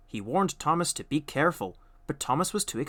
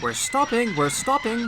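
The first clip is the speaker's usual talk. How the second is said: high, louder calling out; 9 semitones higher, 5 dB louder than usual. A narrator's reading. Thomas calling back to the trucks on the hill. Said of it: "called Thomas".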